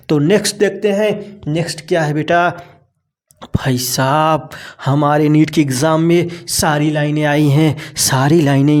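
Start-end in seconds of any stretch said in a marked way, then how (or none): 3.6-4.5 hushed whisper for emphasis; a conspiratorial whisper to the students. Real, not acted. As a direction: lean in and whisper it like a secret. Teacher stresses an important point.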